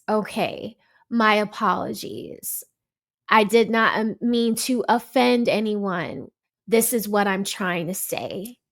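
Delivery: soft, measured conciliatory tone; model apology. Acted. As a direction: demonstrate a calm, careful apology. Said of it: "conversation would have moved into a better space".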